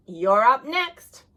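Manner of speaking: slow, loud call across the yard; loud, drawn-out call. Acted. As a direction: shout it across the court. Calling across playground.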